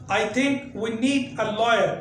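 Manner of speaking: slow careful American English; American accent. Shown as a demonstration. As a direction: say it the American way, very slowly. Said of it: "American English में बोला जाएगा". (धीमा अमेरिकी लहजा)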